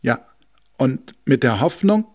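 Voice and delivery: high, loud ticking voice; ticking clock. Acted. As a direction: tick it out like a wall clock. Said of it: "sagte die Wanduhr".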